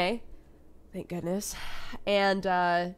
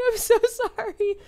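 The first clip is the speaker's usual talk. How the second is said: raised, louder sheepish sorry; high loud apology; 6 dB louder than usual. Retold or imitated. To the startled neighbor, a high loud apology. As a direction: gush out an apology, pitched up.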